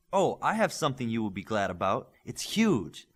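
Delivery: eager, bursting to share news; like a kid who can't hold a secret; lightly voiced excitement; excited. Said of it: "Cosmos said excitedly".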